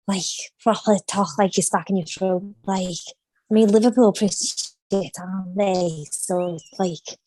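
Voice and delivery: throaty Liverpool accent; Scouse accent. Shown as a demonstration. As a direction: talk Scouse, stuck in the throat. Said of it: "Should we go Scouse?".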